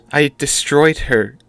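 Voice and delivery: high, loud, breaking voice; voice cracking. Acted. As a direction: cry it out as the voice breaks. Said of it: "Her voice cracked".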